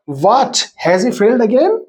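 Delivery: surprised question, rising sharply on "again"; mild surprise. Shown as a demonstration. Teacher reading out an exclamatory pronoun example, mildly surprised. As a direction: ask it slowly in mild disbelief. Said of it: "shows surprise".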